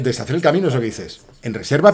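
ordinary delivery

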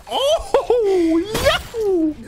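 high, stretched-out cheer; excited whoop. Real, not acted. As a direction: whoop it out with joy. Wild cheer at a game move.

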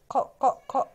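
ق tapped out three times, pausing between; sounding out first letter. Shown as a demonstration. Teacher finding the first letter of قرد, sounding out ق. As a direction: repeat ق as short separate sounds. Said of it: "قرد بالقاف".

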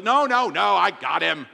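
acted-out sudden eagerness to take over; mock hasty insistence. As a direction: jump in to stop them. Retold sudden offer to get up.

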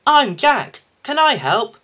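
high, loud, keen little loader; perky high character voice offering help; eager newcomer. A narrator's reading.

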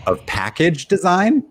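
high, loud, slow disbelief; surprised. Real, not acted. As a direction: echo it in shock. Incredulous echo of clue.

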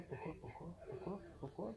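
exasperated whine. Real, not acted. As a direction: whine it at the screen. Exasperated repeats, stuck in game. (plainte exaspérée)

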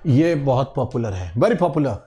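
ordinary delivery

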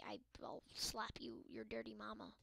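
hiss-free hushed mock threat; mock whispered threat. Gamer whispering a joking threat at a ball.

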